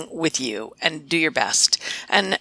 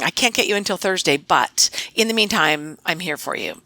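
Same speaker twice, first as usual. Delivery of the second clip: kind and reassuring. Shown as a demonstration. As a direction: give bad news but make them feel looked after. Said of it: "the change in inflection changes what you're saying".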